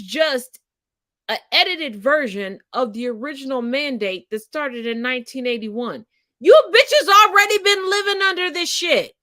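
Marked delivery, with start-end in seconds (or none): 6.4-9.1 louder, higher blunt callout; exasperated outburst. Real, not acted. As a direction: hit them with the harsh truth. Exasperated punchline to audience.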